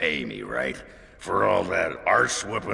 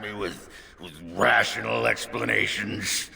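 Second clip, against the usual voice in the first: paranoid. Acted. Paranoid talk to nobody.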